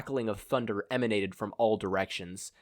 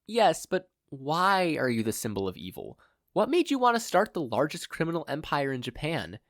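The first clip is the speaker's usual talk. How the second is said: much higher, sweetly polite; polite captive mother; 5 semitones higher than usual. Acted. Blindfolded mother politely interrupts her kidnapper. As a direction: interrupt with mock courtesy. Inko probing the villain.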